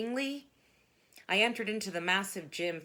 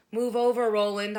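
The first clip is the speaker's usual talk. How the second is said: loud call; 2 semitones higher, 7 dB louder than usual. Real, not acted. Pushing past Roland to box.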